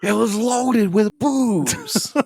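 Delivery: very slow, high, laughing through the words. Pretend. Cohost cracking up on a joke line, slow high laugh. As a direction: drag it out laughing and squealing.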